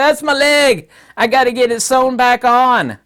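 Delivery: loud, high, frantic mock claim; mock indignant Russia. Russia as a man crying over his severed leg, loud and frantic. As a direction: shout it like a panicked owner. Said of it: "It's like".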